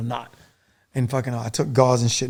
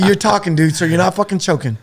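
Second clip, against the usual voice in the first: higher and louder, urgent insistence; insistent shout; 5 semitones higher, 6 dB louder than usual. Retold or imitated. Soldier tells choking medic he's fine, loud insistent. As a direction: yell it to snap him out of panic. Reassuring wounded medic loudly.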